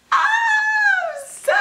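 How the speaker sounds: very high, loud squeal; bursting with affection; overjoyed squeal. Real, not acted. Vlogger overwhelmed by her doll, squealing very high and loud.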